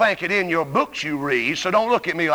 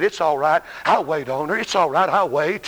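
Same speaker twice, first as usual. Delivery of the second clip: patient waiting; 4 semitones lower than usual. Retold or imitated. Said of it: "You sat there very patiently and said".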